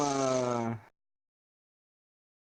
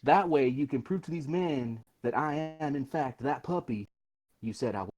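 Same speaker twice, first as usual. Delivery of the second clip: lightly voiced taunt, taking its time; swaggering adventurer. Character goads the bandit leader.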